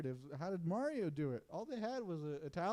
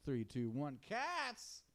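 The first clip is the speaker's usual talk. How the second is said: countdown reveal; 4 dB quieter, much slower than usual. Pretend. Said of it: "supposed to guess".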